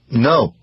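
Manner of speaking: "No" said with mild emphasis; emphatic denial. A narrator's reading. Patient denies the doctor's suggestion with an emphatic "No". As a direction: put firm weight on "No". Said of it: "he said emphatically".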